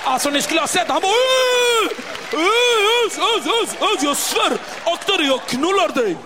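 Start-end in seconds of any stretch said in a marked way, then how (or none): 1.1-6.2 mock angry threat. Zoran hotar.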